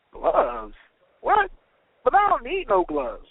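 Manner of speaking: high-pitched, incredulous pushback; baffled protest. A narrator's reading. Worker baffled by offered gloves.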